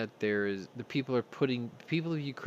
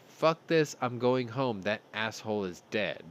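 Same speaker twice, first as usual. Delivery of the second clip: defiant yell. Retold or imitated. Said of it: "and go".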